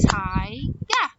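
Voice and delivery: "Tiger" split into two clapped beats; syllable by syllable. Shown as a demonstration. Teacher claps syllables with children, "Tiger" in two beats. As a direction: break "Tiger" as Ti, pause, ger. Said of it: "Two syllables".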